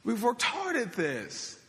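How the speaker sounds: a tired fisherman protesting to his master; exasperated fisherman. Acted. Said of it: "adding my own kinda inflection on that".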